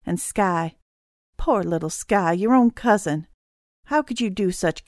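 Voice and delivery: measured accusation with a touch of controlled anger; deadly calm. Acted. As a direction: accuse firmly, keeping mostly calm. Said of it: "Mom's voice was deadly calm".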